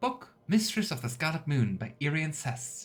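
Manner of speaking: plain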